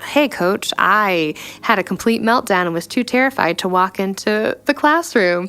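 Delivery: hammed-up meltdown to the coach; mock panicked call. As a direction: play the call she won't make, a bit frantic. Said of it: "'cause I don't just want".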